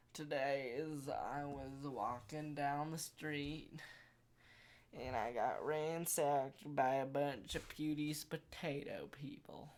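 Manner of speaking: put-on British accent, slowed right down. Vlogger telling viewers a tall tale, mock British accent. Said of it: "still talking in this British accent".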